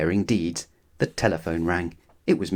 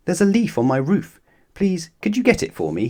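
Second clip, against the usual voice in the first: lightly voiced fretful neighbour, higher; a worrier pleading for help, pitched up; Mister Worry's voice; 8 semitones higher than usual. A narrator's reading. Mister Worry calling from his house, a higher fretful plea.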